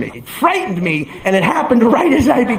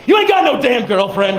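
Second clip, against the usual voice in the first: interrupting retort; 3 semitones higher than usual. Retold or imitated. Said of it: "he interrupts me".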